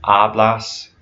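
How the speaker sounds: "Hablas" with the first A stressed; weight at the front of "Hablas"; stress on first syllable. Shown as a demonstration. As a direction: say "Hablas" as AH-blahs. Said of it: "the first syllable of a".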